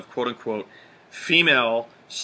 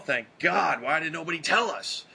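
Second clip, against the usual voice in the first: relieved guy; 4 semitones higher than usual. Retold or imitated. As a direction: gush like a grateful clueless guy. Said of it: "and they will be like".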